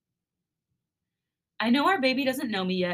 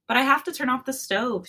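giggling; 5 semitones higher, 5 dB louder than usual. A narrator's reading. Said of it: "she giggles".

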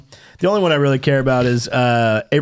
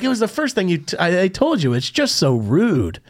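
mock scolding, starting high and ending slow; retold exasperated reprimand; 4 semitones higher than usual. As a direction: shame them like naughty children. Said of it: "you can scold him".

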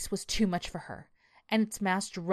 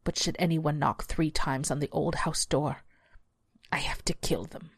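hushed beast. Acted. Beast, fading to whisper.

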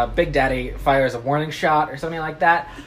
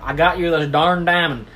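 Texas dad saying "darn" with an open ah; country twang, clear "dahrn" in darn; Texan country accent. Acted. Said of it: "I'll be saying, "Darn".

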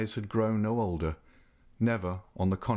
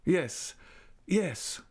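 submissive; 9 semitones higher than usual. A narrator's reading. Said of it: "echoed Raoul submissively".

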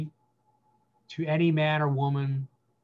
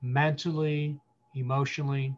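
stand-in father's apology. Pretend. Pastor speaking as the absent father to hurt listeners, gently sorry. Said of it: "And I wanna say to you".

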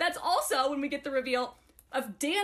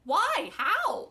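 rising, higher-pitched mock disbelief; incredulous; 5 semitones higher, much slower than usual. Reader reacts to being handed hell's armies, incredulous. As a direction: question it in escalating bafflement.

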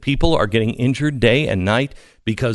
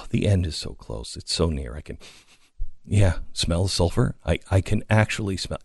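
soft, low hammed-up dread; mock doom; 6 semitones lower, 7 dB quieter than usual. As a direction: quietly dread the end. Mock doom, softer and lower.

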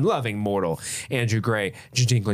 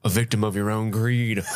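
lightly voiced wrestling promo; measured promo line with a hint of the wrestler; Jake the Snake. Podcaster reciting a looked-up promo, lightly in character. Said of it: "I wanna quote one of his".

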